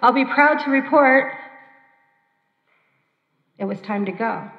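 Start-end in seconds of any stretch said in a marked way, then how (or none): 0.0-1.3 inner voice. Retold or imitated. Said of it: "I heard a voice in my head say".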